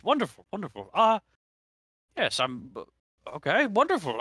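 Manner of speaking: put-on squeaky eager old man voice; old man mumbling. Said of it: "the old man grumble babble".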